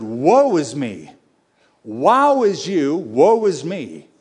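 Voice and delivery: slow, drawn-out woe; slow lament. Retold or imitated. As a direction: mourn slowly like the prophet. Isaiah's lament retold.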